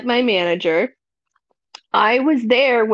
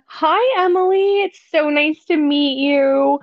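high, bright and chirpy hello; sugary welcome, pitched up; sweet manager greeting; 3 semitones higher than usual. Retold or imitated. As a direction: greet her like an overly friendly new boss. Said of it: "I got a".

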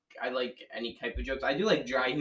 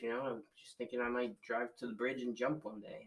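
mopey. Retold or imitated. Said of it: "he's like".

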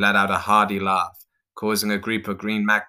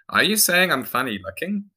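high, indignant question; offended; 9 semitones higher, 3 dB louder than usual. Acted. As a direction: stress on saying, rising.

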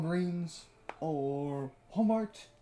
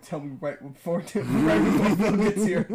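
laughing mock request; 5 dB louder than usual. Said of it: "be like".

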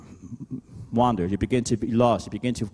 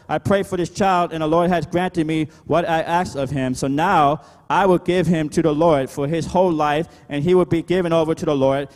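raised, projected Bible reading; declaimed scripture; 4 semitones higher, 3 dB louder than usual. Real, not acted. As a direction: read the verse out to the congregation, emphatically. Reads the verse aloud.

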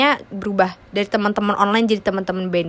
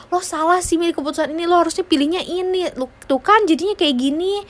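fast, higher scolding voice; critical person; 7 semitones higher than usual. Retold or imitated. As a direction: lecture someone, quick and high. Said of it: "kayak kata orang".

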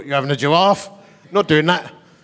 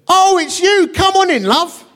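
much higher, friendly welcoming voice; sweet welcome; 12 semitones higher, 3 dB louder, slower than usual. Retold or imitated. Woman warmly inviting the vicar in, high and sweet. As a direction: sing out a cheery northern welcome.

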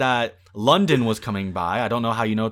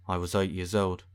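mock exposition line; 5 semitones lower, 5 dB louder than usual. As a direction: parody a droning backstory speech. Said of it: "it'll be like".

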